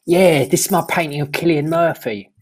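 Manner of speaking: a light put-on Cockney accent; lightly voiced Cockney bloke; David Cockney. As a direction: play a cheeky Cockney geezer, lightly. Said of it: "It's David Cockney".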